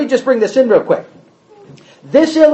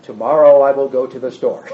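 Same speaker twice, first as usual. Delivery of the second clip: repeating back; 9 semitones lower than usual. Retold or imitated. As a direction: answer it back meekly. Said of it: "that person repeats back".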